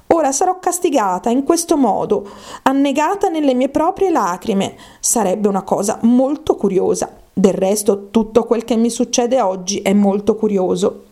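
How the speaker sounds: mildly dismayed, then puzzled; Alice, musing ruefully. Acted. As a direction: wonder aloud as a storybook heroine.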